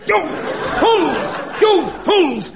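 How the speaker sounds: high loud exasperated bellow; angry shout. Acted. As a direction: scold them as idiots. Inspector berates them.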